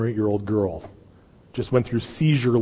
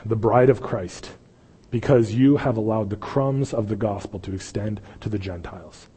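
closing prayer. Acted.

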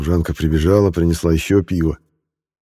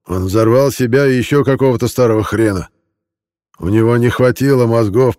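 higher, agitated aggrieved man; a drunk man pouring out his grievances; bitter drunk villager; 5 semitones higher, 3 dB louder than usual. Acted. Malik's drunken complaint voiced.

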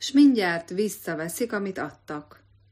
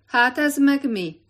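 higher, louder shout across a field; shouted from afar; 7 semitones higher, 7 dB louder than usual. A narrator's reading. Forester shouts at the couple from afar. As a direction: call out from a distance, angry. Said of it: "kiáltott már messziről".

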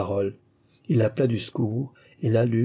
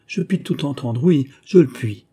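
higher, anxious insistence; anguished; 4 semitones higher, 5 dB louder than usual. A narrator's reading. Adeline insisting she can bear the news, anguished. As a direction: insist through anguish, louder at the end. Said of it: "dit-elle dans les plus vives angoisses".

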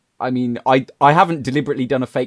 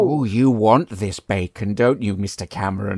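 tempting devilish whisper; 5 semitones lower than usual. Retold or imitated. Tempting advert voice, far timbre.

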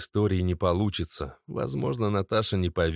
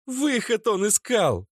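ringing angry voice; 14 semitones higher, slower than usual. A narrator's reading. Natasha pacing, scorning Oleg. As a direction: ring it through the room. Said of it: "Её звонкий голос резонировал".

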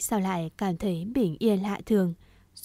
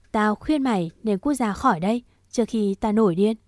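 raised, forceful threat; angry warning; 5 dB louder than usual. Acted. Vũ orders Đạt out before he snaps, angry warning. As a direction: warn him off, louder and firm.

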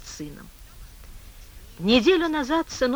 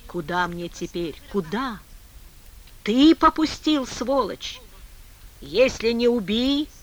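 angry; 3 semitones higher, 3 dB louder than usual. Acted. Man cursing God in despair.

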